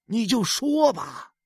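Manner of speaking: lightly voiced urging husband. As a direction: push her to speak. Husband urges wife.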